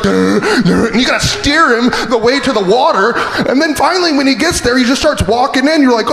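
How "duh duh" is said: dumb horse noise. Retold or imitated. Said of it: "The horse is like".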